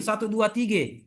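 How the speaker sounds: satu, dua, tiga counted Betawi-style, with tiga said as tige; Betawi accent. Shown as a demonstration. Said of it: "Orang Betawi juga pakai E".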